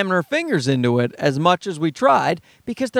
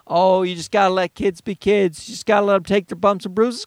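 mocking quote. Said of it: "people are telling me".

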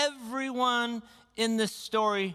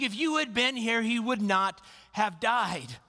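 higher, pressing reproach; mildly frustrated Martha blaming Jesus; a sister's bitter complaint; frustrated accusation; 4 semitones higher than usual. Retold or imitated. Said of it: "She's like".

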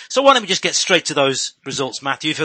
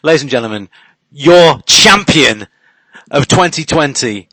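booming pumped announcer; 11 dB louder than usual. Acted. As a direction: crow it out like a champion's introduction. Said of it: "I'm gonna take a moment to crow".

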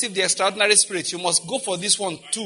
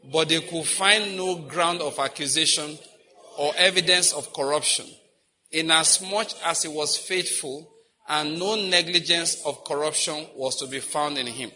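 slow group scripture reading. Shown as a demonstration. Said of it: "let's start together".

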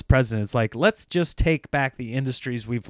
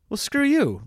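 mock outrage; 12 semitones higher than usual. Real, not acted.

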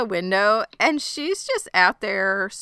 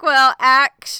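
know-it-all; 7 semitones higher, 8 dB louder than usual. Retold or imitated. Retelling Floss's know-it-all correction.

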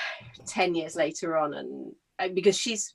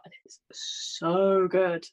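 whispered; much slower than usual. Real, not acted. Gushing about a book.

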